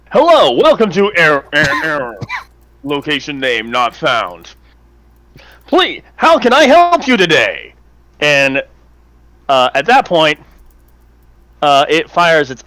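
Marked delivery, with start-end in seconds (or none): 0.1-7.7 sarcastically helpful robot greeter; chirpy scripted call-centre voice; customer service voice. Acted. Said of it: "delivers its classic customer service voice".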